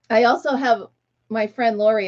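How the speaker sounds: ordinary talk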